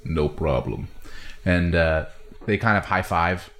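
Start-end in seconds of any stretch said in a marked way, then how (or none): 0.0-0.9 lightly voiced laid-back lizard; John the Saurian answering Crimple, low-key; Saurian reply. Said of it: "And he goes".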